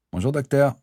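put-on a cheeky kid greeting the doctor; boy patient greeting his doctor, child voice; young boy voice. A narrator's reading.

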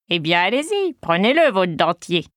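cocky, teasing offer, pleased with himself; swaggering. Acted. Old prankster Gustave taunting Léon, boastful and grinning. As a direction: show off like a prankster about to win. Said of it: "fanfaronne Gustave avec un large sourire".

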